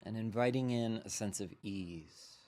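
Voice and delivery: unhurried meditation guide with long pauses; measured, spacious mindfulness-teacher delivery; guided meditation. Real, not acted. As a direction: lead them gently into settling, leaving space between phrases.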